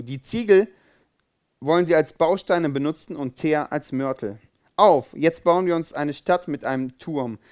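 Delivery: measured scripture reading; steady, read-aloud narration; Bible reading. Acted. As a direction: read the Babel story to the congregation. Reads Bible story aloud.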